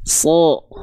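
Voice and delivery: "So" held long on a thick O; heavy, rounded O in a drawn-out "So"; huruf tebal. Shown as a demonstration. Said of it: "kita lafalkan seperti vokal O". ("So" tebal seperti vokal O)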